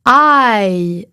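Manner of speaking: I gliding from a to i; diphthong. Shown as a demonstration. Teacher repeating the English diphthong. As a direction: start on a and slide to i. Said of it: "On commence avec un A, on finit avec un I".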